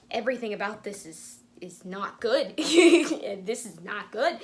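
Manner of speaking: lightly voiced anxious warning, slowing at the end; a hint of nervous Virgil fretting, breaking into laughs. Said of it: "Virgil should be popping up and being like".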